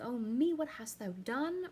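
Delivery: queen terrified at the killing; panicked queen. Acted. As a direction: gasp it out in panic. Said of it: "in a panic".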